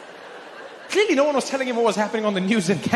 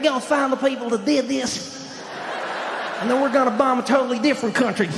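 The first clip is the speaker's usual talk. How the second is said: chuckly Bush delivery; lightly voiced chuckling Bush; Bush impression; 2 semitones higher than usual. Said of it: "that weird chuckly thing".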